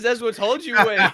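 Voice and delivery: high, hammed-up imitation of the clip voice; imitating the clip. Friend repeating the viral clip line, hammed-up high. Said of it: "he says".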